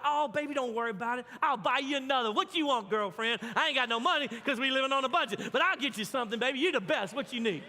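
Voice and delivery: mock sweet-talking his wife with loud swagger; playful husband to wife. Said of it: "So I was like".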